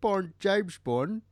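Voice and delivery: slow, high, hammed-up Cockney; Bert the Chimney Sweep. Co-host imagining a chimney sweep as Bond, mock Cockney. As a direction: introduce yourself in badly faked Cockney. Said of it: "imagining Bert the Chimney Sweep as".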